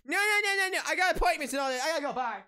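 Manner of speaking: high, loud whiny brush-off that fades at the end; mocking whine. Employee imitates coworker ducking the task, high loud whine. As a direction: whine like you're bolting out the door.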